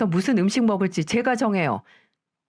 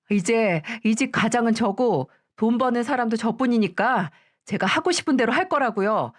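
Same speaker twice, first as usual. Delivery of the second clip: sharp, slightly higher talking back to the mother-in-law; defiant daughter-in-law; 3 semitones higher than usual. Acted. Daughter-in-law snaps back at her mother-in-law in an indignant voice.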